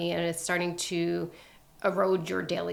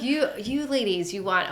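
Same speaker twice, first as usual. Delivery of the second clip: higher, lightly imitated Russian accent; 4 semitones higher, 4 dB louder than usual. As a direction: play the Russian waxer lecturing women. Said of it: "very thick Ru-, Russian accent".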